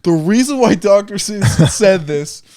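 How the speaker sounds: lightly mock scholarly voice; pompous analyst. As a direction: fake highbrow analysis. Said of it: "and be like".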